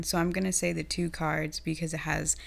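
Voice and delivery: rough, strained throat; hoarse voice. Real, not acted. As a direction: talk through a hoarse throat. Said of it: "damn, my voice".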